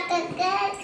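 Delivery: lightly imitated rooster call; pretend rooster crow. Child copying a rooster for parent, mild pretend crowing. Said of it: "കോഴി എങ്ങനെ?".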